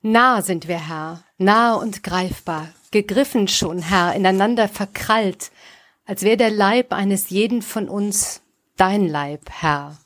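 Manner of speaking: measured poetry reading with pauses; solemn verse reading, dropping on the last word; poem recitation. Acted. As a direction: recite line by line, weighing each phrase.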